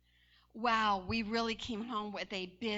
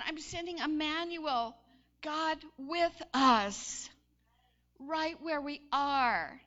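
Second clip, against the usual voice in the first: slow, drawn-out declaration; God's proclamation; 3 semitones higher, 5 dB louder, slower than usual. Acted. God announcing Emmanuel to his people. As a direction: proclaim it slowly and grandly. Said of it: "But God said".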